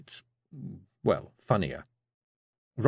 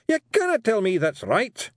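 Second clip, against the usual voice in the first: high, louder gruff Scots grumble; growling Feegle; 13 semitones higher, 5 dB louder than usual. A narrator's reading. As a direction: grumble it, disgusted by the letters. Rob protests.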